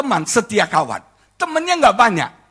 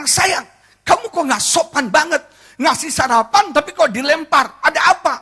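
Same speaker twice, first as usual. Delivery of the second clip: raised pitch, mild indignant scolding; retold annoyed husband; 5 semitones higher than usual. Husband confronting his wife over tossed breakfast, mock annoyed. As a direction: act out a husband's mild telling-off. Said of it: "Saya marah dong".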